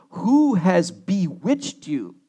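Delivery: slow, mildly confrontational question. Acted. Paul demanding who has bewitched his readers, slowly confrontational. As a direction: draw out the challenge word by word.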